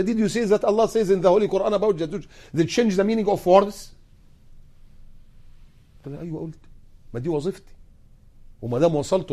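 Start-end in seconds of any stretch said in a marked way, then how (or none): 0.0-3.9 judge quoted in English. Retold or imitated. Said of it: "والله بالنص كده".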